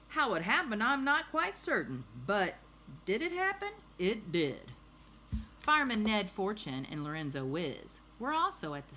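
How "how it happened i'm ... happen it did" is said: high, loud, emphatic testimony; officer's statement. Acted. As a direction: declare it as the storybook police officer. Officer quoted in newspaper.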